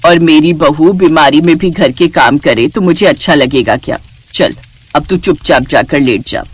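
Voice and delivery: low-pitched, caring insistence; lightly voiced protective elder; kindly mother-in-law. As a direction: gently overrule her protest. Mother-in-law insists she rest.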